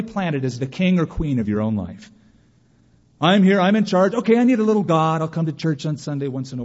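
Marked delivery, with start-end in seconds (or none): 3.2-6.6 smug self-ruler. Retold or imitated. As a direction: boast like the king of your life. Mocking self-ruling churchgoer.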